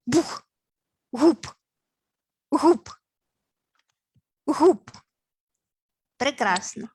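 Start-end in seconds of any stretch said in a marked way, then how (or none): 0.0-4.9 punchy, louder «Гуп!» for each jump; splashing jumps. Shown as a demonstration. Teacher leading kids jumping in puddles, loud splashy calls. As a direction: bang out each jump sound. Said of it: "стрибаємо по калюжах".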